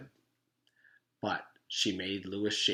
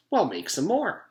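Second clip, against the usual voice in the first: loud, high demand; spoiled kid calling for more cookies; 10 semitones higher, 8 dB louder than usual. Acted. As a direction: insist like a spoiled child.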